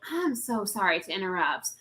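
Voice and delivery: lightly voiced older Southern man, low and soft; a hint of a polite Southern gentleman; good old Southern boy. Stranger approaching her at a sports bar, lightly imitated Southern boy. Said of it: "It's a good old Southern boy".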